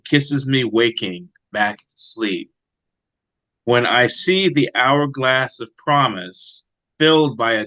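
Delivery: slow, measured poetry recital; poem reading. Acted. Poet reading his own poem for the host, slow and measured. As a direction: read each line slowly and let it settle.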